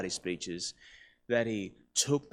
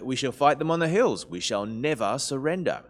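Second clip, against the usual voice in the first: a hint of stirring wartime oratory, own accent; Winston Churchill; 3 semitones higher, 5 dB louder than usual. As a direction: quote a defiant speech without the accent. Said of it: "bits of his stirring wartime speeches".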